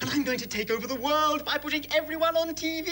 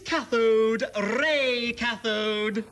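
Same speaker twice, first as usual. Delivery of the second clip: villain introduction; 3 semitones lower, slower than usual. Acted.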